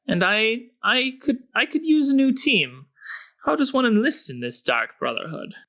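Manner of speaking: high eager halfling; halfling rogue voice. Acted. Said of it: "halfling says".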